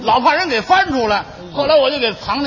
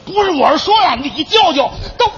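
raised voice; 5 semitones higher than usual. Acted. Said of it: "你再嚷嚷，再嚷嚷".

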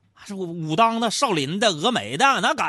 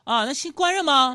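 offhand; 10 semitones higher, 5 dB louder than usual. Retold or imitated. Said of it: "淡淡的说".

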